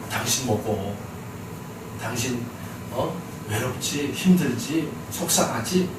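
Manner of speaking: soft, low voice of a comforting husband; tender consoling. Acted. Husband consoling his hurting wife Hannah, soft and tender. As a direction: speak gently and quietly, coaxing out the hurt.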